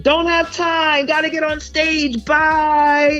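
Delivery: high-pitched comic farewell; high, breezy mock getaway line; hurried brush-off. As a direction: sing it out as you dash past. Dashing past security to the stage.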